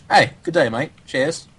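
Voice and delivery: chirpy imitated European accent; jolly European accent. Coach imitating jolly European players, in their accent. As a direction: greet them in a cheery European accent. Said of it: "That's a pretty good accent".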